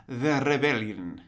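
"The rebellion" with a rolled r, slow. Retold or imitated. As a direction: roll the r in "The rebellion". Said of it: "rolls his R's".

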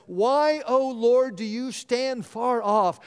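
acted protest to heaven; angry lament. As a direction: demand answers from God in prayer. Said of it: "David admits his anger to God".

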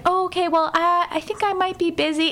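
high, hesitant put-on voice; retold sheepish waffling; imitating flustered man. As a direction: back out awkwardly, as a nervous guy.

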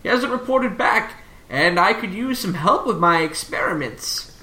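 lightly voiced professor explaining a problem. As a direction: ask visitors for help as a professor, lightly.

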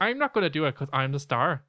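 lightly put-on Northern Irish accent; self-important, in mock Northern Irish. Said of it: "That's our great Northern Ireland accent".

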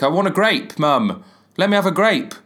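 high-pitched mock demand to mum; hammed-up childish pleading. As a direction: beg like a put-out kid. Acts child begging mum for fruit.

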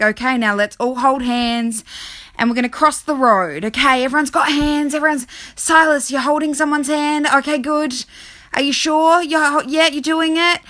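lightly voiced teacher herding children; a hint of fussy class supervisor; anxious teacher. Acting out adult herding the class.

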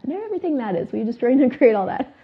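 can barely get the words out for laughing; giggling through the clearing. Real, not acted. Clearing read while cracking up.

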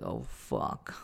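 a breathy whispered oh fuck; whispered curse. Retold or imitated. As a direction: whisper it, mortified. Embarrassed while people watch.

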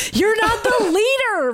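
high laughing scream. Acted. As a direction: shriek it through a laugh. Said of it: "Maddie screamed".

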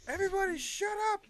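high, loud acted outburst; imitated commanding shout. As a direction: shout it as an imitated order to a whole room. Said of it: "and he's like".

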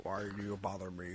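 grumbling house elf. Acted. Elf answering an ice-cream order, low grumble. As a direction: mumble it low like a put-upon servant.

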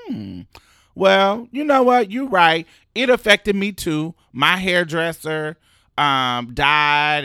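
suddenly sweet and agreeable, putting it on; Frederica conceding. Retold or imitated. The landlord conceding to Blanca in a put-on sweet voice. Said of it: "Frederica was like".

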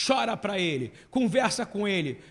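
loud pleading appeal; apelo do pregador. Real, not acted. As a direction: urge them loudly to pray. Preaching appeal. (apelo fervoroso em voz alta)

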